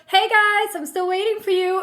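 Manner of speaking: high, sing-song mock call; imitating the driver. Pushy taxi driver calling to waiting couple, imitated high call-out.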